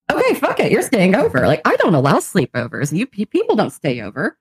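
mock outburst, pitch jumping up and down; exasperated giving in. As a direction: act out throwing your rules away. Acts out her flustered giving in.

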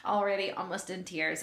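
real emotion breaking through with laughs; overwhelmed host fighting back tears while laughing; tearful laughter. Real, not acted. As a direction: voice pitched high, laughing on the verge of tears. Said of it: "I'm just gonna start crying right now".

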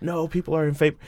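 high, soft voice of a mock doubter; imagined objector. Speaker imagining someone disputing his opinion, mock disbelief. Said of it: "somebody's gonna be like".

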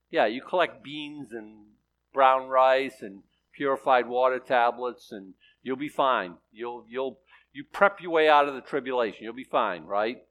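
dry mock reassurance for preppers; sarcastic. Real, not acted. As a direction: say it sarcastically, tongue in cheek. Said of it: "Factor in my sarcasm".

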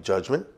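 "judgment" given deliberate weight; stress on judgment. Real, not acted. Lecturer quoting the discipline's aim, stress on "judgment". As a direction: lean on the word "judgment". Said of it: "I emphasize the word judgment".

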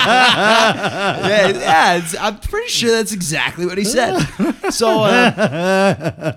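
words pushed out through laughter, high and loud; laughing while talking. Real, not acted. Telling a friend the story, talking through real laughter. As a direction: keep cracking up as you talk.

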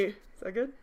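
game master setting the scene; story narration. Acted. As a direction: read the spooky scene to the players.

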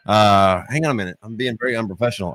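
talking while chewing gum. Real, not acted. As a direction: gum still in the mouth. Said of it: "I've still got gum in my mouth".

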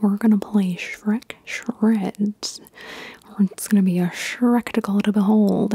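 drawn-out mock video game voiceover; funny gamer guy. Imitating a Shrek game commentator's funny way of talking, whispered. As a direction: lightly imitate a punning gameplay narrator. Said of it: "he talked like that".

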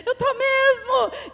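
high, slow, drawn-out comic retort; mock defiant admission. Mother repeating her retort to daughter, mock defiant. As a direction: stretch out the indignant comeback, amused. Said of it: "Eu falava".

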